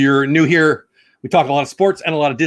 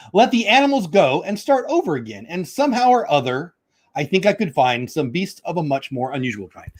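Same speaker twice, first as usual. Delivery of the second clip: storybook reading; 3 semitones higher than usual. Acted. Reading Dr. Seuss aloud to viewers, bouncy storybook voice. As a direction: read it like a picture book for kids.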